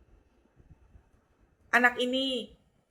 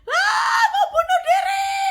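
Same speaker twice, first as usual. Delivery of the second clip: shrieked, laughing mock despair, far higher; a hammed-up wail, high and loud; 7 dB louder, slower than usual. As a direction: squeal it like a dramatic quitter. Mocking a despairing believer.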